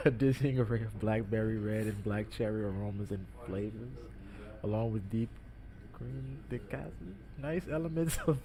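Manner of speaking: stiff, halting read from a label; bad acting. Shown as a demonstration. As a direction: read it stiffly like cue cards. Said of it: "you have to deliver it like you're, like you're just making it up".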